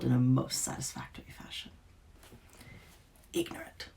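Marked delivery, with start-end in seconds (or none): 3.3-3.9 soft scornful whisper, pitched up. A narrator's reading. Witch whispering in pain to the Duke's son. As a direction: breathe the word with pain. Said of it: "she whispered".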